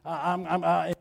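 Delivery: mildly imitating a man too nervous to speak; nervous stammer. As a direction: stumble lightly over the first words, as if retelling a nervous wreck. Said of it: "he could barely speak. He was just a nervous wreck".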